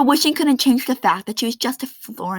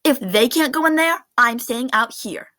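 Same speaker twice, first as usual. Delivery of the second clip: defiant; 3 semitones higher, 4 dB louder than usual. Acted. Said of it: "Florence said".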